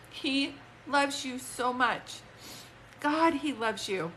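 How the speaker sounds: slow, tearful and moved; near tears. Real, not acted. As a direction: hold back the tears, slowly. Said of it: "he's making me cry".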